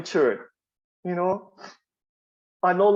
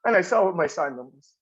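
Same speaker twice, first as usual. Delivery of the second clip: ordinary delivery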